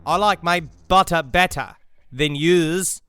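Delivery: slow Australian "I like my butter better"; Australian accent practice. Shown as a demonstration. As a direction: drill the sentence in Australian. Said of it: "the sentences that you're practicing with".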